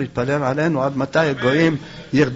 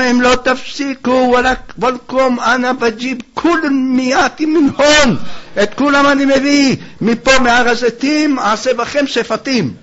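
thundering threat; 8 semitones higher, 4 dB louder than usual. Acted. Sage chases the mob with clubs, loud acted threat. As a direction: threaten them at full voice.

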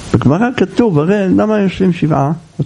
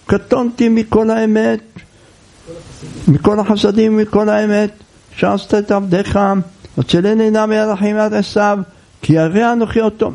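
higher-pitched pleading recitation, mildly urgent; imitated crying out; 5 semitones higher than usual. Jacob suddenly cries out to God, mock outcry. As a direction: cry out the verse on a held high pitch, without real shouting. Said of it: "פתאום הוא מתחיל לצעוק".

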